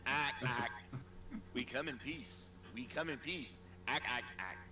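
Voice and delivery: Mars Attacks alien chatter; Martian voice. Acted. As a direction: ack it out like a movie Martian. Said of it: "everybody can do the Martian impression".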